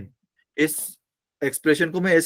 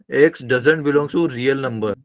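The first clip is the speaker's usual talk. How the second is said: slow, deliberate; much slower than usual. Shown as a demonstration. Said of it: "teacher stresses the key phrase".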